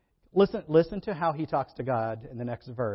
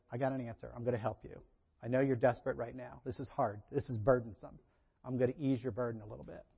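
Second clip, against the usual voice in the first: softer, tender voice of God; gentle reassurance; 2 semitones lower, 4 dB quieter than usual. Retold or imitated. God reassuring a desperate Moses, softly and kindly. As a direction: soothe a desperate friend. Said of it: "and says".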